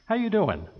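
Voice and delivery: lightly voiced Joey pickup line to the congregation; Joey Tribbiani. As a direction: tease the congregation like a sitcom charmer. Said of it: "As Joey Tribbiani from Friends would say".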